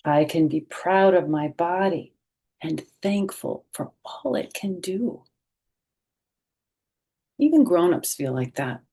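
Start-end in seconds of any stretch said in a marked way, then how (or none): 0.1-5.2 bright, expressive picture-book read-aloud; reading to children. A narrator's reading. Teacher reading a picture book aloud to children, expressive.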